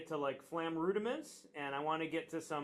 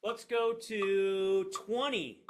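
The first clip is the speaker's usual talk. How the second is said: calling out; 4 semitones higher, 6 dB louder, much slower than usual. Real, not acted. Calling over the drums.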